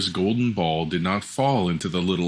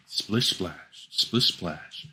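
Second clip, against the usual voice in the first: soft splashing sounds; 2 semitones lower, 6 dB quieter, much slower than usual. A narrator's reading. Sound of frog creeping.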